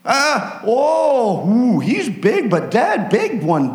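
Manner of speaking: high, escalating amazement, laughing; astonished soldiers. Acted. Judah's soldiers discovering the dead army, high astonished cries. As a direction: count the dead in disbelief.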